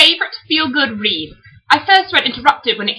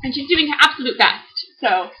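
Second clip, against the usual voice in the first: put-on genteel British hostess; corny British accent. Older sister introduces little Ruthie, corny British accent. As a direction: play at a polite British accent. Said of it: "read them in corny British accents".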